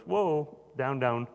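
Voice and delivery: high, loud "Whoa, down, down" like reining in a horse; calming whoa. Retold or imitated. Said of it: "the Lord comes back and he goes".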